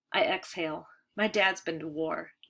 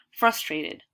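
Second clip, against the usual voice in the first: exasperated; 3 semitones lower, 5 dB louder than usual. Acted. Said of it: "I say, exasperated".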